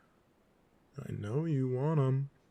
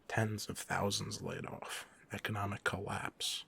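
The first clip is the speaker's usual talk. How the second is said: softer, slow, ominous listing; grave; 3 semitones lower, 6 dB quieter than usual. Acted. Villain warning hero of a world without villains, grave. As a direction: lay out each consequence slowly and softly. Villain lists grim consequences.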